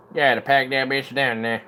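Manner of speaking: put-on redneck twang; redneck accent. Muttering to oneself while packing it down, in a redneck accent. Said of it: "redneck accent hardcore".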